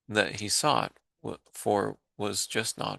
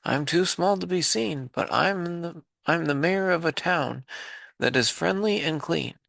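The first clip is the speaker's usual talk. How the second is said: higher small mayor voice, lightly done; tiny mayor voice; 4 semitones higher than usual. Acted. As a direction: speak up like a tiny grateful mayor. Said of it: "called the voice".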